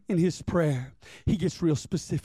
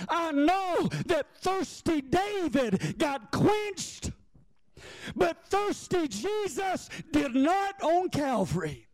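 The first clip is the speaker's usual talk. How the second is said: higher, slowing down, building to a shout; full-force preaching; 7 semitones higher than usual. Acted. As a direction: preach it out, climbing to the peak.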